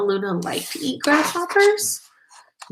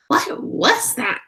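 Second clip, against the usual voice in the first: put-on baby bird startled by a noise; startled cry; 5 semitones higher than usual. Baby bird startled by the bat landing, breathy cry. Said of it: "cried Flap".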